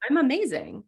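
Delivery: high, playful wonder; lightly hammed-up self-praise; mock self-admiration. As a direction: gush at yourself, half-joking. Voicing self-admiration, listener laughs.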